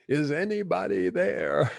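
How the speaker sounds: high, pleading cry upward; desperate call to the sky. Retold or imitated. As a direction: call out hoping someone answers. Man hanging from cliff calls.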